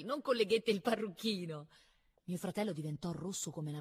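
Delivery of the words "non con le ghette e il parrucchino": high, loud spoken taunt; high-pitched scornful jibe, spoken; mocking. A narrator's reading. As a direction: make fun of him in a high voice. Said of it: "L'essere preso in giro".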